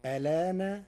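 ألان with the hamza vowel moved onto the lam; demonstrating Warsh pronunciation; Warsh transfer of hamza. Shown as a demonstration. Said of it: "فتصير الكلمة هكذا".

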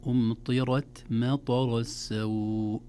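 slow, measured tajweed recitation; Quran recitation. Shown as a demonstration. Teacher modelling the verse for learners, slow recitation. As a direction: recite slowly with long-held vowels.

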